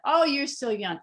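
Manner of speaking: cocky. Retold or imitated. Friend putting down her five sober years, cocky. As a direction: toss it off like a cocky old-timer. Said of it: "she got cocky".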